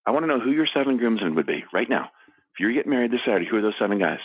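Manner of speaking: mock game show host question; playful quiz. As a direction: tease the kids with the question. Dad pressing the question.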